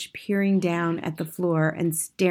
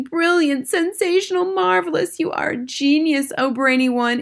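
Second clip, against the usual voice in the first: high-pitched, excited cheering crowd; adoring shouting; 8 semitones higher, 4 dB louder than usual. A narrator's reading. Witches applauding their leader's plan, high excited shouting. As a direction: gush loudly in a high voice. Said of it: "clapping madly and shouting".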